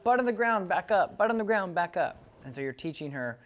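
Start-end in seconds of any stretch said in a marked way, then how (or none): 0.0-2.2 high, loud put-on voice of a puzzled dog; the dog complaining, voiced high and loud; voicing the confused dog. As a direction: squeak it out like the dog protesting. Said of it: "She's like".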